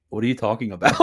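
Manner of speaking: deadpan retort, in an even everyday voice; straight-faced. Retold or imitated. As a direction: play innocent with a straight face. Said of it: "straight face was like".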